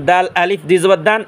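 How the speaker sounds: দান with a light d at the upper front teeth; thin দাল. Shown as a demonstration. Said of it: "চিকন আওয়াজে".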